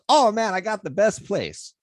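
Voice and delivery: put-on high, eager African accent; an African driver proudly offering help. Driver promises the best weed shop, light African accent. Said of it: "I'll probably do a little bit of it".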